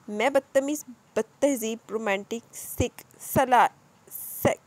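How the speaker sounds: building to a loud cry on the name; stammer, then cry out his name; shrieking name. Acted. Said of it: "जीमल चीखी".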